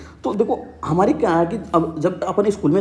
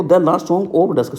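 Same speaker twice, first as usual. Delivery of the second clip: the last song of dusk said slowly; slow teacher emphasis; slow title read; much slower than usual. Shown as a demonstration. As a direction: point students to the title, slow. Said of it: "देखो".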